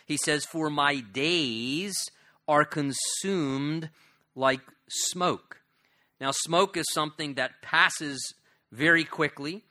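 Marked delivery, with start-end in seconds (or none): 0.5-5.6 lamenting. Acted. Psalm lament read aloud.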